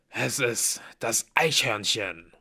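slow, weighty announcement in character; ominous reveal. A narrator's reading. Blitz reveals the dreaded squirrel, slowly and ominously. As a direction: draw out each word with dread.

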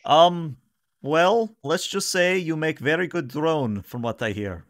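high-pitched, chatty husband character; husband's double. Acted. Game master plays Tolep's husband.

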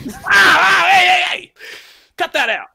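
high, yelping shouts; loud, alarmed cries; panicked shouting. Acted. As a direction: shout frantically for it to stop. Fending off another outburst.

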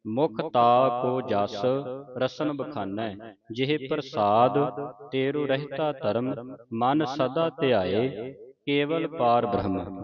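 slow, measured verse reading; scripture recitation. Shown as a demonstration. Teacher recites the ashtpadi for students to follow, slow recitation. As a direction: stretch the vowels and pause after each phrase.

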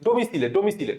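ডোমিসিলে as "domi-si-le", final e voiced; spelling pronunciation. Shown as a demonstration. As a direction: say ডোমিসিলে twice, exactly as spelt. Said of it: "তুমি উচ্চারণ করবে এভাবে".

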